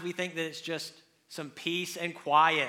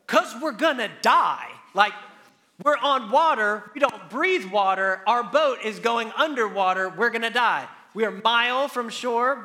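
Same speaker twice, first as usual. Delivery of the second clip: panicked disciples; 3 semitones higher, 5 dB louder than usual. Retold or imitated. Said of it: "they all look at him and go".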